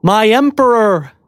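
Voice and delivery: very high, slow, awed knight voice; trembling whisper. A narrator's reading. Angelic young knight awed before his emperor, high and trembling. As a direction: tremble it out in awe, pitched high. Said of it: "in a trembling whisper".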